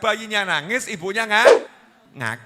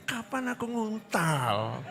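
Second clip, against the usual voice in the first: laughing inner grumble; 3 semitones higher, 10 dB quieter, slower than usual. Retold or imitated. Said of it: "Senyum, artinya".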